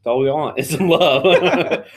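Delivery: talking through a cookie; words round a mouthful of cookie; mouth full. Real, not acted. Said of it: "I'm eating a chocolate chip cookie".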